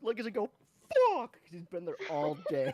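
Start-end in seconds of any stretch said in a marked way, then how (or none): 0.9-1.3 sharp loud curse; angry curse. Retold or imitated. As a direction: spit out the curse. Stranded traveler cursing at cancellation.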